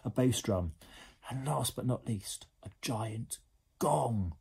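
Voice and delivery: lively storybook reading; animated bedtime-story narrator; story narration. A narrator's reading. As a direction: read it to young children with drama. Reads a story to children.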